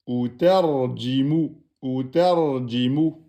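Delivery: "ou terji mou" read slowly syllable by syllable; teacher modelling the word; slow reading aloud. Shown as a demonstration. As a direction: spell it out slowly. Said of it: "On a le mim de fin".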